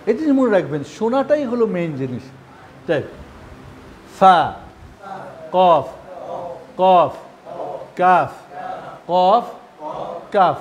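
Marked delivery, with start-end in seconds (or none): 4.2-10.6 কফ আর কাফ আলাদা করে জোরে বলা; letter demo. Shown as a demonstration. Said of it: "এই দুটি নিয়ে কি মাথা খারাপ".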